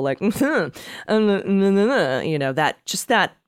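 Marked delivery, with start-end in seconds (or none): 0.3-2.3 mock smug little noise; put-on smug hum-laugh; smug snicker. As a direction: imitate a smug, wordless snicker. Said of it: "just that smug asshole".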